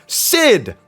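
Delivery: high, loud one-word shout; triumphant blurted answer. Acted. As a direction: fire back the winning answer in mock triumph. Blurts the meme's instant answer.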